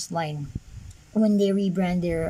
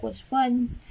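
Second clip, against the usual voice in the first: higher-pitched mock enthusiasm; sarcastic; 4 semitones higher than usual. Real, not acted. Toy reviewer repeating his jab at the figure, sarcastic. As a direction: pretend it's a treat, then chuckle. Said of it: "being sarcastic once again".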